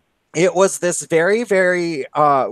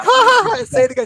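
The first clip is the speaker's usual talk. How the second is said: mock laugh; 4 dB louder, faster than usual. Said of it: "we'd be like".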